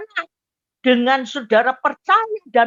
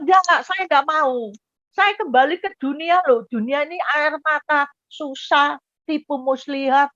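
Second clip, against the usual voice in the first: higher-pitched, insistent refusal; pleading protest; 4 semitones higher than usual. Retold or imitated. Arguing with the angel at heaven's gate, pleading protest. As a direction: plead your case against going back.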